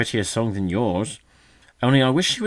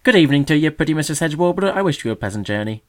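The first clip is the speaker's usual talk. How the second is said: high, loud sneering magpie; mock the bird with sweet scorn; 5 semitones higher, 6 dB louder than usual. A narrator's reading.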